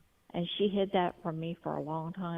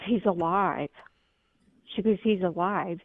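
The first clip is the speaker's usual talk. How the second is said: excited; 5 dB louder than usual. Retold or imitated. Friend reports dog revived.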